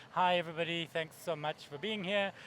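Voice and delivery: a lightly parodied tedious speaker; boring presenter. Retold or imitated. Presenter greets the audience, mildly bored drone. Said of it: "listening to your boring presentations".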